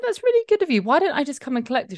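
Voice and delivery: high-pitched mock-polite gushing; gushing politeness. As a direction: lay on retold politeness, very high. Retold over-polite reply to friend.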